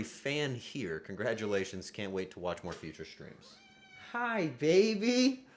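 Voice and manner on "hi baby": drawn-out high-pitched pet greeting; cooing to a pet. Real, not acted. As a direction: gush over a beloved cat in a high voice. Greeting the cat.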